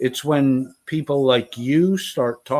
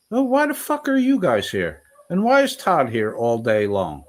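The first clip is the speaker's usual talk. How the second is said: pitched way up, incredulous; indignant high retort; 3 semitones higher than usual. Real, not acted. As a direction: fire back in disbelief. Angry retort to Finkel.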